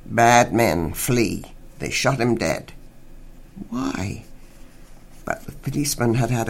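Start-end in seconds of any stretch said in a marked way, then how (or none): 0.0-2.7 very slow, heavy policeman with broken English; slow grim officer. Acted. Officer explains the killing, slow and grim. 3.7-4.2 whispered, much softer question; hushed why. Acted. Old man asks the officer, barely whispered.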